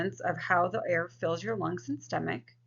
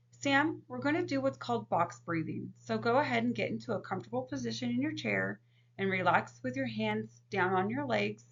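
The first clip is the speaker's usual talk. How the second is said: calm counselor voice. Shown as a demonstration. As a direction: guide the client gently through breathing. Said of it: "If we were working with a client".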